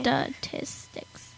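"Statistics" slowly, syllable by syllable, softly; saying it slow. Shown as a demonstration. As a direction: sound out "Statistics" carefully in slow, separated pieces. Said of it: "I have to say it slow".

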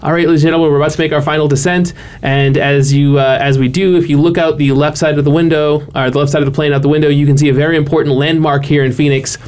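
lightly voiced pilot intercom; a hint of a captain on the PA; airline pilot announcement. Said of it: "the captain did that sort of thing".

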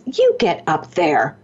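slow, emphatic command; drawn-out, insistent push; firm order. Retold or imitated. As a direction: order someone up, spacing each word. Student ordering her on stage.

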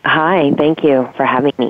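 congested voice with a cold; stuffy nose. Real, not acted. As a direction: talk through a blocked nose. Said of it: "you sound like you have a cold".

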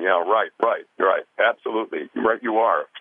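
lightly voiced know-it-all director. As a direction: agree briskly, as if an expert on everything. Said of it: "a know-it-all and".

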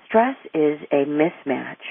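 mismatch said slowly and deliberately; stress on mismatch. Real, not acted. Explaining what stress is to listeners, stress on "mismatch". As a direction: lean slowly on the word "mismatch". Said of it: "I emphasize the word mismatch".

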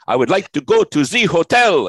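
loud, high-pitched hammed-up French accent; mock French accent. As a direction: exaggerate a tourist's bad French accent, loudly. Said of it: "they thought I was one of the natives. I said".

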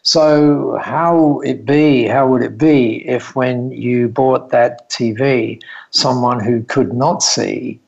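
slow, careful retold Japanese-accented English; lightly imitated Japanese accent, measured pace. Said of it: "in this lovely Japanese accent".

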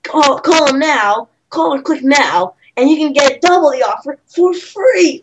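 lightly hammed TV pitchman; hard sell ad. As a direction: pitch it like an infomercial. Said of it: "Billy Mays try to sell this".

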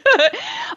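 quick embarrassed giggle at her own mistake; short high laugh. Real, not acted.

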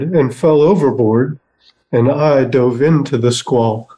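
sing-song limerick recital; bouncy limerick lilt. Acted. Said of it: "let's read some serious poetry".

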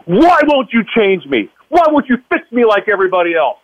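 high-pitched, anguished pleading outcry; retold scream at God. Man demanding answers from God, retold screaming. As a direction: re-enact crying out at God in protest. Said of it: "I start screaming at God".

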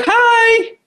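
very high, playful hello; playful greeting. Acted. Host imagines greeting callers' pictures, in a high playful voice. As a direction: pitch the hello way up. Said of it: "I wanna be like".

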